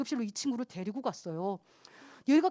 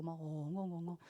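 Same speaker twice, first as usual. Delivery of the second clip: imitated wailing; 8 semitones lower, 16 dB quieter than usual. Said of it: "엉엉 통곡을 하고 울어요".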